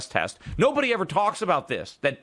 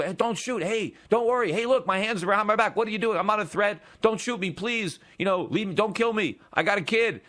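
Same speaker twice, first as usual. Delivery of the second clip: higher, mock pleading to a gunman; man at gunpoint pleads with the shooter, mock pleading and higher; pretend pleading; 5 semitones higher than usual. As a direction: beg him calmly not to shoot. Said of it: "I would try to reason".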